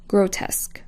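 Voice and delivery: soft whispered grotesque. Shown as a demonstration. Course teacher naming the first sans serif group, whispered.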